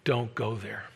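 low, hushed gentle warning; soft warning. Pretend. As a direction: warn them quietly, like a whisper of conscience. God's warning voiced softly.

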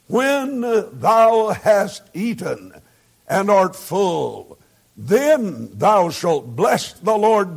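slow, solemn King James reading; scripture reading. Acted. Preacher reads Deuteronomy to the congregation, slow and solemn. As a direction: read the verses slowly and reverently.

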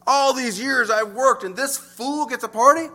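grumbling. Retold or imitated. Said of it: "Grumbling against his own father's reception".

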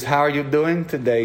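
light imitation of a Nordic accent; a hint of a Norwegian or Swedish doctor; Scandinavian accent. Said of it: "You know, in that, that accent".

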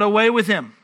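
preacher imitating an insistent mob; mild mock crowd shout; crowd crying out. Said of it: "they cried out".

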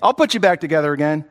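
calm voice of God; reassuring. Acted. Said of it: "God says".

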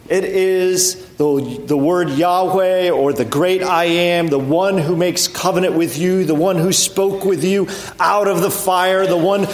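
building preaching crescendo. Acted.

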